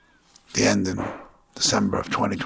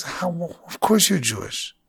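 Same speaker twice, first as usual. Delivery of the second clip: a touch of a brighter, higher, excited exclamation; delighted realization; 8 semitones higher, slower than usual. Retold or imitated. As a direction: let the discovery light up the voice a little. Sister-in-law's delighted discovery.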